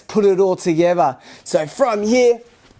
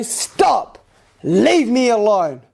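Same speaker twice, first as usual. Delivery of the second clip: loud command; slower than usual. Shown as a demonstration. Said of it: "Nice and loud".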